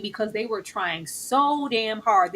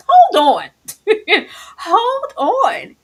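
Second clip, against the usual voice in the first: loud, high call through laughter; big amused exclamation; laughing halt; 12 semitones higher, 8 dB louder, much slower than usual. Real, not acted. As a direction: stop everyone, cracking up. Halting the talk, laughing.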